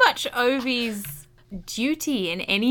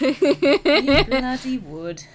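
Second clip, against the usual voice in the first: laughing; 3 semitones higher, 8 dB louder, much slower than usual. Real, not acted. Laughing reply to story end.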